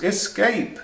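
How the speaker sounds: high meowed word; cat meowing escape. A narrator's reading. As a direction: meow it like a cat. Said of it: "meowed the cat".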